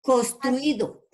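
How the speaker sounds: Construido stretched out slowly, syllable by syllable; slow dictation. Shown as a demonstration. Teacher dictating Construido slowly to the online class. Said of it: "Otra palabra".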